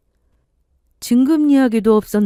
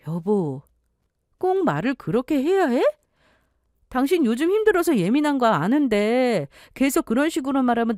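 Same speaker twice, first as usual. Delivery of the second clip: wife pleading; 5 semitones higher than usual. Acted. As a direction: ask him gently to speak kindly.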